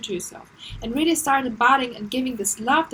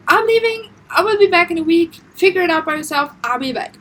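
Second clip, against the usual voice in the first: cold dismissive partner; 6 semitones higher, 9 dB louder than usual. Pretend. Uncaring partner walking out.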